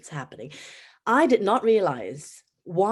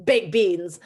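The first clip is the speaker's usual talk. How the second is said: "Baked beans" louder with a falling tune; falling offer; 6 dB louder than usual. Shown as a demonstration. Dinner ladies shouting to staff in the canteen, with a falling tune. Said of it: "dinner ladies who shouted".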